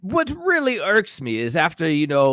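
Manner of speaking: shaky attempt at British English; British accent. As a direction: play the British pundit, stretching the words. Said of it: "Nailed it".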